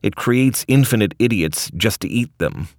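lightly voiced cranky old scientist; Rick voice. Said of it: "he explains".

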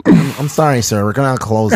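put-on whiny nasal teen employee; nasally teenager voice. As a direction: pinch it through the nose like a teen clerk. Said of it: "a real nasally voice".

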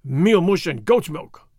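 slow, loud growled oath; swearing. Acted. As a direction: spit out the curse slowly. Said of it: "swore Sergeant Gonzalez".

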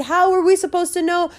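high, defensive whine; a lightly voiced sheepish protest; whiny excuse. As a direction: plead ignorance like a caught kid. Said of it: "they were like".

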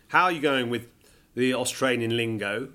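ordinary talk, nothing marked

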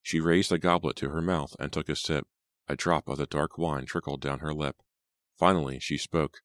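ordinary delivery

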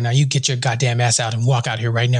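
very low, gruff boss bark; gravelly old tycoon. Retold or imitated. Angry boss voice.

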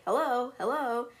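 lightly voiced bird call; a hint of a mysterious caller; parrot calling. Hidden parrot calls from across the hall, lightly mimicked. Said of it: "a voice is calling".

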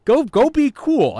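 high, loud, slow sing-song; drawn-out squeaky go be cool; high loud slow mockery; mock high taunt. Dismissing the doubt figure.

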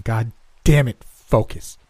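sharp curse at himself; angry outburst. Acted. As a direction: snap himself back. Snaps at himself.

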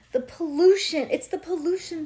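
high, loud dramatic cry; hammed-up alarm; alarmed outburst. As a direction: wail it like a catastrophe.

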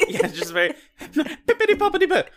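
talking through real laughter; giggling through a silly phrase; laughing. Real, not acted. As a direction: laugh the nonsense words out. Laughing at the scene.

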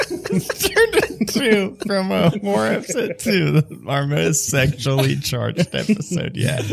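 high laughing trailer voice; mock announcer.

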